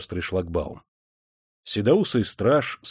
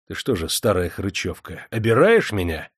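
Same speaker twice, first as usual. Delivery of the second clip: angrily. Acted. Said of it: "сказал ей зло".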